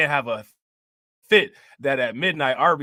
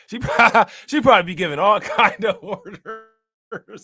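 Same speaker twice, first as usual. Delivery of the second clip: normal talking voice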